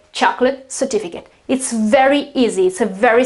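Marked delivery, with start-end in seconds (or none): 0.1-1.3 "chocolate" as CHOK-lut, "certificate" as cer-TI-fi-cut; accent before the suffix. Shown as a demonstration. Teacher sums up nouns, stress before a short "ut". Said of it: "the accent is before".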